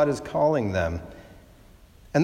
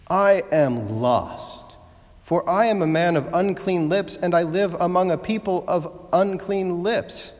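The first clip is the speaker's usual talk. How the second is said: lament. Retold or imitated. Isaiah's lament in the temple.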